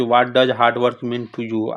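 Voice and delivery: model question to partner. Shown as a demonstration. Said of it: "उससे बोलिए कि".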